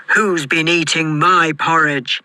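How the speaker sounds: gruff Father Bear growl; great gruff voice. A narrator's reading. Father Bear finding his porridge touched, gruff growl. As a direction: growl it out as a big storybook bear. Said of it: "in his great gruff voice".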